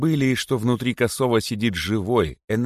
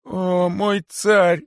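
high, slow, wailing plea; desperate imploring; 12 semitones higher, 5 dB louder, much slower than usual. A narrator's reading. Poor Kosoy appeals to his tsar, imploring desperately. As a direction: beg in a high, drawn-out voice. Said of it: "взмолился бедный Косой".

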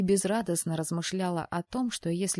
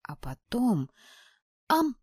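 scary; 5 semitones higher, 3 dB louder, slower than usual. A narrator's reading. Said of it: "для пущего устрашения".

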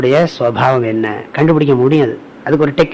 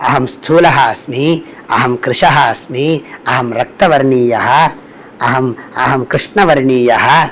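slow, measured Sanskrit chant of அகம் ஸ்தூலஹா; slow scripture recitation; 2 semitones lower, slower than usual. Shown as a demonstration. Teacher recites the verse to students, slow and measured. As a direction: intone each line slowly like a verse. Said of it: "அவர் சொல்றார்".

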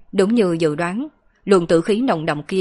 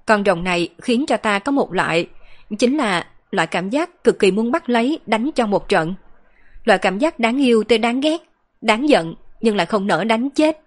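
put-on higher-pitched girl, playfully exasperated; exasperated girl character; 4 semitones higher than usual. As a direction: lightly voice a girl's fond annoyance, lifting the pitch. Girl character rambles on about dragon. (giọng cô gái cao, vừa yêu vừa bực)

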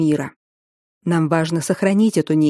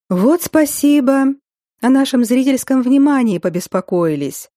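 sarcastic; 7 semitones higher than usual. Acted. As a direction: thank them with sarcasm. Heroine sarcastic at the guardians.

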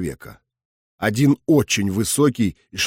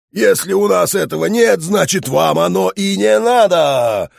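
loud, high, sing-song hawker's cry; street barker shouting; 7 semitones higher, 3 dB louder than usual. Acted. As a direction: bellow it like a market barker. Barker calling people inside.

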